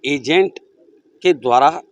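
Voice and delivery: measured, projected reporter's delivery; news report intro. Real, not acted. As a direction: present the case to viewers, emphatically. (समाचार reporter की बुलंद प्रस्तुति)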